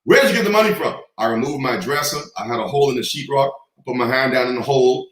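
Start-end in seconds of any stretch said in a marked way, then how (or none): 0.1-0.9 stern father. Retold or imitated. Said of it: "He said".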